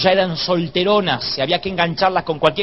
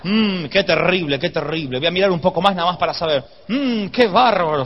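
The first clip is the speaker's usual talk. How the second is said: mock horror. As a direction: feign shock while secretly wanting to keep looking. Acts a man pretending to be shocked. (espanto fingido, alargando las palabras)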